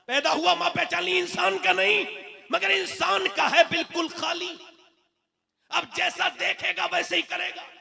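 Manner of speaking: high-pitched, exclaiming sermon delivery. Real, not acted. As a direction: drive each point home to the crowd. Preaches in raised voice. (ऊँचे सुर में जोशीली तकरीर)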